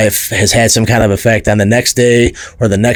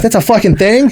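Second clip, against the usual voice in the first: high-pitched, disbelieving question; mock incredulous; 11 semitones higher than usual. Reacting to girls spotting his Cleveland accent, high-pitched incredulity. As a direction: replay your astonishment, pitch shooting up. Retold surprise at accent remark.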